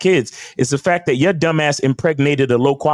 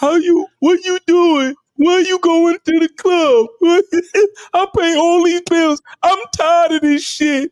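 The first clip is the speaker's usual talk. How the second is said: very high, beaten-down voice on the verge of crying; 3 dB louder than usual. Mocking a man in a video, imitating a defeated, near-tearful voice. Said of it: "he sounds defeated, like he about to cry".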